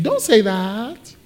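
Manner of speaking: slow, drawn-out mock plea; Peter. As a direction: quote the protest slowly, stretching the end. Quotes Peter's protest more softly.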